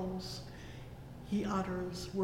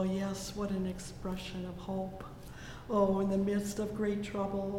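ordinary delivery

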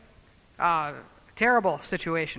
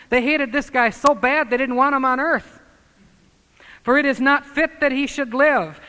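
loud, raised pulpit voice; louder fiery sermon line; preaching at full force; 5 semitones higher, 6 dB louder than usual. Acted. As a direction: make them feel the mob's hatred.

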